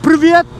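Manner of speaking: "Privyet" said as a bright Russian hello; "Privyet" said cheerfully in Russian; Russian greeting. Shown as a demonstration. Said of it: "in Russian".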